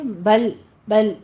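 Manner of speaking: بل with the ل held and stopped, no vowel after; stopped lam. Shown as a demonstration. Teacher shows students the stop on بل. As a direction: stop firmly on the ل of بل. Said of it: "یہاں پہ stop کرنے".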